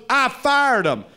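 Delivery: high, slow, laughing boss brag; smug manager. Retold or imitated. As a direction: gloat like a sly manager. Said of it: "He goes".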